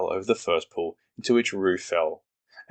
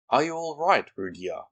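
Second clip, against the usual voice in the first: anxious call; 7 semitones higher than usual. Acted. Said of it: "called Kanga anxiously".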